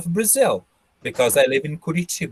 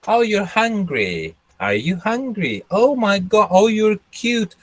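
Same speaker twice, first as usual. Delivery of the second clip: lightly voiced baby talk, higher, falling coos; a hint of doting parent cooing; 4 semitones higher than usual. Mother talking to her hungry baby, lightly cooing.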